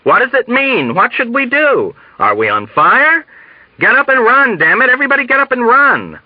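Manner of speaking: high, frantic cries building in urgency; from alarmed questions to urgent yelling; shouted panic. A narrator's reading. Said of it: "shouted someone else".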